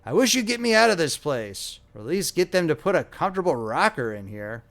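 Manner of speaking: put-on fretful old man demanding comfort; querulous old man. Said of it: "went on the old man querulously".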